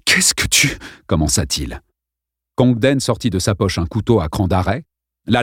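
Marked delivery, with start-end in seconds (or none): 0.0-0.8 terrified. Acted. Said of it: "Il était terrorisé".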